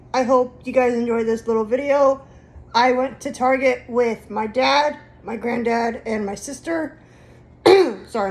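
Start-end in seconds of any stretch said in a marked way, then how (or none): 2.7-7.0 hoarse, fading voice; losing voice. Real, not acted. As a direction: voice almost gone, rasping. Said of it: "I'm losing my voice".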